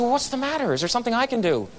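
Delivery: gently acting out a worried waiter; retold concern. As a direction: ask with concern, pitch lifted. Waiter asks crying guest what's wrong.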